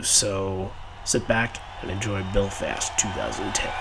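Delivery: light Irish accent, relaxed and easy; a gentle hint of an Irish lilt. Shown as a demonstration. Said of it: "did a little Irish accent".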